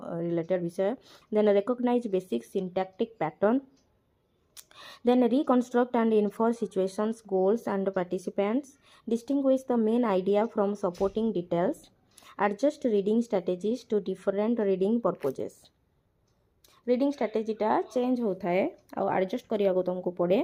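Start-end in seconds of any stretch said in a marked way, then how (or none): 5.1-15.5 slow, deliberate reading of the English text aloud; slow textbook reading. Acted. Teacher reads the textbook line aloud, very slowly. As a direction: read each word out slowly for the class.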